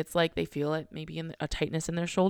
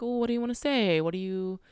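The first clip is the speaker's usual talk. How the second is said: high, curious question to the feeling; gentle coaxing question; 5 semitones higher than usual. Pretend. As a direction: ask your own feeling like a shy friend. Asking the emotion what it wants.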